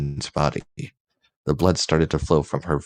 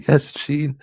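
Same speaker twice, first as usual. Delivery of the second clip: high voiced Jean; 10 semitones higher than usual. Jean answers Logan.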